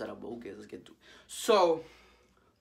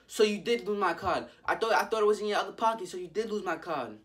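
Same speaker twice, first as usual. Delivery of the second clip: slightly raised, lightly voiced mother; imitated mild scolding; accusing mom; 5 semitones higher, 4 dB louder than usual. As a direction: press it as an accusation. Mom confronts him about the card.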